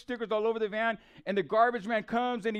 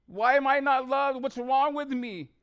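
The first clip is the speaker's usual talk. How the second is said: high, drawn-out retold plea; pleading testimony from past pain; anguished plea; 4 semitones higher, 4 dB louder, slower than usual. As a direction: cry out the questions in hurt. Anguished questions from his testimony.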